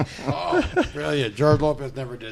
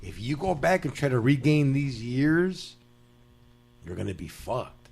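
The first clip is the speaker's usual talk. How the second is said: imitating a fellow inmate; 3 semitones lower, 5 dB quieter than usual. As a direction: counsel a homie quietly, with long pauses. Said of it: "this vato goes".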